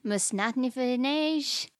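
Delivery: backwards speech. Shown as a demonstration. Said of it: "backwards, you sounded like this".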